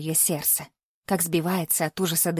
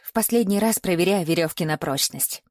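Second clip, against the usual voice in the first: plain reading voice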